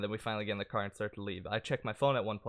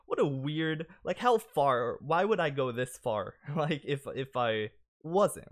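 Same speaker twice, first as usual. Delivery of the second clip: incredulous; 4 semitones higher, 4 dB louder, slower than usual. Retold or imitated. Incredulous inner reaction to her questions.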